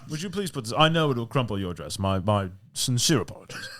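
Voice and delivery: mock-genteel servant pleading; gentle, deferential steward. Steward fussing over rich lady's dress, mock gentleness. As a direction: apologize with exaggerated courtesy. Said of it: "the rich people get it all gently".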